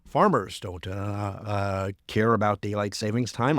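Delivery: lightly put-on South Dakota accent; a hint of South Dakota twang. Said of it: "do my South Dakota, uh, uh, accent now".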